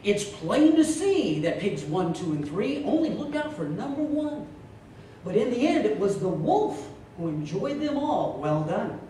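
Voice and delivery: a touch of a stage speaker wrapping up; motivational speaker. Acted. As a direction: preach the moral like a paid speaker. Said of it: "here's how he concludes his talk".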